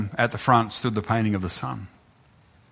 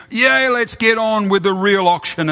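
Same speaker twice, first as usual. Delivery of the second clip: high, louder impatient call; impatient bidder; 8 semitones higher, 3 dB louder than usual. Acted. Bidder eager to move on to the real auction. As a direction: hurry it along.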